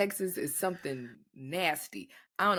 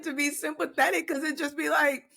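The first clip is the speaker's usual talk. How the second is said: exasperated; 8 semitones higher, 3 dB louder than usual. Real, not acted. Exasperated complaint.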